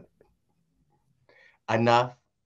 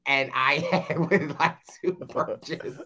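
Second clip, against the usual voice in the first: alien voice. Pretend. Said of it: "Is there an alien in the chat?".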